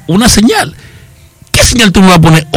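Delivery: high, incredulous echo question; retold disbelief. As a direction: act out puzzled disbelief. Acts out disbelief at God.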